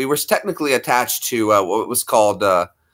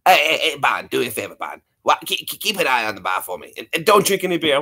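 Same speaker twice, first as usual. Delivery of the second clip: cartoon bartender. Cartoon bartender addressing barfly.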